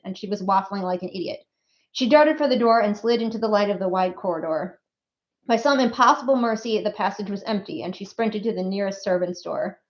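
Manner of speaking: expressive read-aloud narration; story narration. A narrator's reading. Author reads an excerpt to the audience, story narration.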